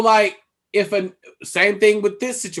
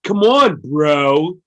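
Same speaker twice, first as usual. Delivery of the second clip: mock annoyed bro; 3 semitones lower, 6 dB louder, much slower than usual. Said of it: "is specific and".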